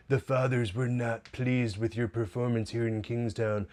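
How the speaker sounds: mock a badly done Russian accent; imitating a vague, unplaceable Russian accent; indistinguishable Russian accent. Milo passing on the Fathers' displeasure, bad Russian accent. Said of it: "in his just indistinguishable Russian accent".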